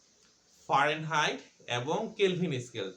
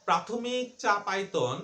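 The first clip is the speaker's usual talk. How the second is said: slow and deliberate; 3 semitones higher, slower than usual. Shown as a demonstration. Teacher to students, stating the terms slowly. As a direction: slowly spell out each word. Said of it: "আচ্ছা, তুমি আমাকে বলো তো".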